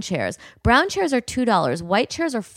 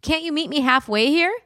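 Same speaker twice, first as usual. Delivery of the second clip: mock-entitled bride voice, pitched high and whiny; hammed-up demanding bride reading her messages; 4 semitones higher than usual. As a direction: read the bride's texts like a spoiled princess. Reading the bride's text aloud.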